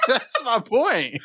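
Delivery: high, drawn-out words squeezed through laughter; helpless real laugh, slow and squeaky. Real, not acted. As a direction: crack up while making your point. Cracks up at own comeback.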